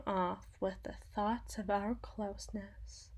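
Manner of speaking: soft, unvoiced secretive whisper; hushed confiding whisper. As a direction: lean in and breathe it like a secret. Intimate aside to the general.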